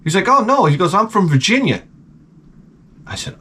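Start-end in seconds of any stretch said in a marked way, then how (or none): 0.3-0.7 high, cheery mock-kid voice; happy kid imitation. 0.9-1.8 high, cheery mock-kid voice; happy kid imitation.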